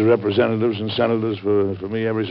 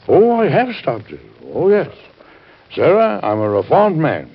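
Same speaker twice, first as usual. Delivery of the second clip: eager protest; 5 semitones higher, 5 dB louder than usual. Acted. Protesting reform to wife.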